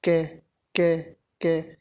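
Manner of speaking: क repeated slowly, each क said with its full short "a" vowel; teacher sounding out क for students. Shown as a demonstration. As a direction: demonstrate क clearly, syllable by syllable. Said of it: "देखो".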